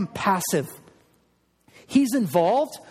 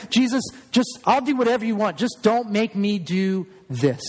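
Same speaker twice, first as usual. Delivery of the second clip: pleading bargain; 2 semitones higher than usual. Pretend. Bargaining with Jesus.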